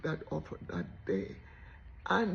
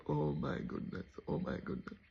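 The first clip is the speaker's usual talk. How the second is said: panicked whisper; 3 semitones lower, 7 dB quieter than usual. Retold or imitated. Panic as he approaches her.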